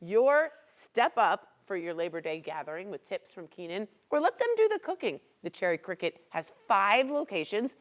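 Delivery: talking through a mouthful; chewing while talking. Real, not acted. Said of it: "I'm chewing with my mouth open".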